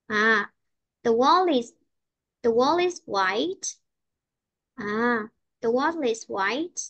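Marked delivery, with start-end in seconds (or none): 1.0-3.8 very slow, with "white" lifted at the end; teacher's slow demo, rising tune on "white"; rising intonation. Shown as a demonstration. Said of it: "đọc cho cô đi lên và cuối câu đi xuống". 5.6-6.8 drawn-out phrase rising on "white"; teacher's slow model, "white" going up; rising intonation. Shown as a demonstration. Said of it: "đọc cho cô đi lên".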